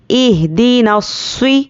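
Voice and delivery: drawn-out اہدینا الص- with a thick, heavy s; heavy saad. Shown as a demonstration. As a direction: recite الص- with a full, emphatic saad. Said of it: "ہم صاد کو موٹا پڑھیں گے".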